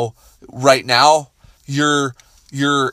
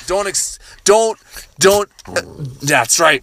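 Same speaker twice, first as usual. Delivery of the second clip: mock tough hype; 6 semitones higher than usual. Egging the dog on against Josh, mock tough. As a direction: play the tough guy for the dog.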